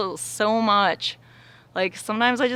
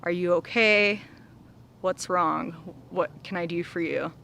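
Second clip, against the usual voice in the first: caring check-in. Retold or imitated. Speaking kindly to her aching heart, gently caring. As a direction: ask it like a worried friend. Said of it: "I literally say to it".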